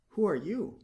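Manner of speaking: a small bird, peeved and pouting; little swallow. A narrator's reading. Swallow voiced in story.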